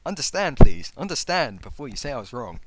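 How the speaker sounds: exasperated plea. Real, not acted. Pleading at a commenter.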